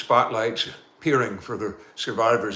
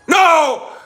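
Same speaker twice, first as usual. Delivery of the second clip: panicked shout; 11 dB louder than usual. Acted. Captain lunges at radio.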